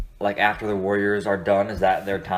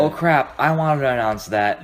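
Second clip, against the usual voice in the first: higher, louder imitation of a caught-out agent; mock dismay; 4 semitones higher, 4 dB louder, slower than usual. Player's agent reacting to leaked news, in mock dismay. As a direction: play someone suddenly caught off guard.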